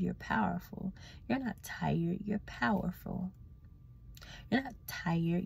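calm yourself down with gentle reassurance; soft affirmations. Retold or imitated. To herself in the bathroom mirror, soft slow affirmations. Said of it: "repeat the affirmation of".

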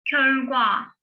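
körgua enunciated carefully; word demo. Shown as a demonstration. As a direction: model körgua clearly. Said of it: "körgua diye okuyoruz".

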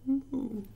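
gentle high moo; soft moo. Shown as a demonstration.

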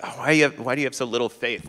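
quick, put-upon complaint of someone just woken; mock exasperated, fond but annoyed. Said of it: "with that exasperated".

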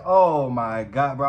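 drawn-out retold dismay; starting to panic. Watching the driver get closer without a wallet, slow mounting panic. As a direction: stretch it out slowly in dread. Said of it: "I started to panic".

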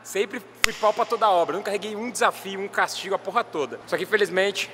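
talking with stitches in mouth; after wisdom teeth. Real, not acted. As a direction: speak carefully around a sore mouth. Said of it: "eu estou com pontos na minha boca porque eu tirei o dente do siso".

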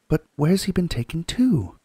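put-on young girl begging for the story; Lucy's voice. Lucy asking Mr Beaver, eager girl voice.

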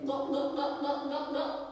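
imitated gulping noises; gulping sound. Shown as a demonstration. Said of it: "So a gulping sound is this".

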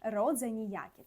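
Polish "род займенський" spelled out slowly; slow Polish term. Shown as a demonstration. Teacher spelling out the Polish term for students, slowly. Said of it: "Середній рід —".

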